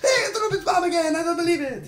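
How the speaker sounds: high, fast Swedish-accented mock surprise; PewDiePie Swedish accent impression. Mocking a YouTuber spotting the enemy again, high Swedish accent. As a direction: gasp out the same old joke in a Swedish accent. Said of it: "I know my Swedish accent is terrible".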